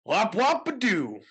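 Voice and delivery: hammed-up Goldberg taunt, barely changed voice; Goldberg impression. Butting in with a wrestler impression. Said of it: "I'm Goldberg".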